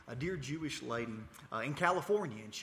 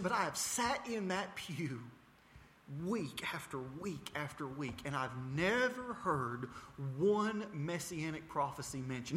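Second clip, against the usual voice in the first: retold anger; 3 semitones higher than usual. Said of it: "I got angry".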